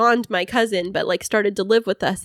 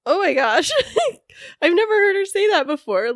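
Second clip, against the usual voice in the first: laughing in disbelief; high, laughing through the words; 9 semitones higher than usual. Real, not acted. Stunned by sister's tribute.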